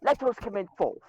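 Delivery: lightly hammed-up English pomp; mock English accent. Riffing on the British meme, mock English accent. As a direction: put on a comic English accent. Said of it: "I've honed my English skills".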